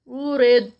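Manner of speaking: ارید ending in a heavy د, no bounce, no breath; clean stop on dad. Shown as a demonstration. Teacher showing correct stop on ارید. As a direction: stop ارید dead with tongue to palate. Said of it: "داد پہ جب اس کو روکیں گے".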